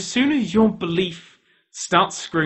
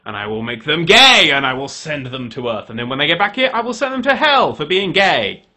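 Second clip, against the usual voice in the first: grand God voice; 4 semitones lower, 3 dB louder than usual. Acted. God announces his plan for people, solemn lower decree. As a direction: intone it like a pompous creator. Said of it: "he goes".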